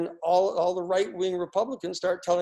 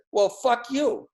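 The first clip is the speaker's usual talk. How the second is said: a mock angry "fuck you", pitched higher and louder; retold angry curse; 5 semitones higher, 4 dB louder, slower than usual. Zia cursing back at Oliver North, mock angry retort. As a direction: imitate Zia snapping back in a half-hammed rage. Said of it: "he got really angry".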